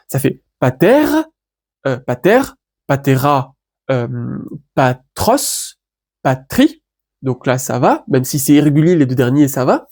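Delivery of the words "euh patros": patros drawn out very slowly; slow recitation. Shown as a demonstration. Teacher reciting pater declension for the class, slowly. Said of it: "Reprenons pater".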